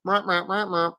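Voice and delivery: droning mock translator box; translator gadget. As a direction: imitate a little gadget babbling. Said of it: "a little translator, a little box, it would go".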